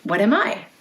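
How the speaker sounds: ordinary delivery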